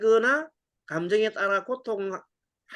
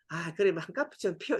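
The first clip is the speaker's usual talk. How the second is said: giving in; 5 dB quieter than usual. Retold or imitated. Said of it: "이렇게 하면 안 되는 겁니다".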